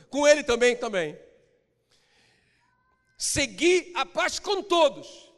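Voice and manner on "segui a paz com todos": higher, slow and emphatic; raised emphatic reading. Shown as a demonstration. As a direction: lean hard on the verse. (verso repetido mais alto e enfático)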